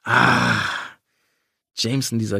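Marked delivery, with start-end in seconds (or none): 0.0-0.6 stifled cry. A narrator's reading. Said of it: "Ich gab einen unterdrückten Schrei von mir".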